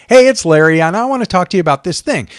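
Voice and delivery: bright, casual "Hey", then quick and easy; casual friendly intro. Shown as a demonstration. Presenter demos a casual on-camera intro: friendly and quick. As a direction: greet the viewer like a friend, lightly. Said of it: "I just come on and go".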